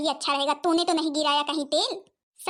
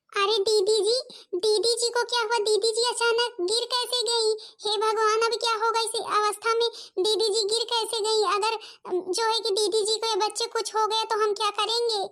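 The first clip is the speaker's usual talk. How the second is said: worried sister-in-law; 4 semitones higher than usual. Acted. Younger sister-in-law worries aloud about the fallen one, anxious. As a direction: fret over the pregnant sister, lightly voiced.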